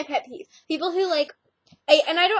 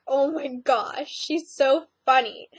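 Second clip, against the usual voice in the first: slow amused quote; slower than usual. Retold or imitated. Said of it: "I was laughing so hard".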